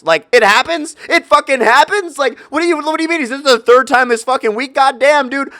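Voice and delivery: high, loud, disbelieving rant; can't believe what she just said; incredulous outrage. Retold or imitated. Ranting to viewers about her shrug, incredulous and loud.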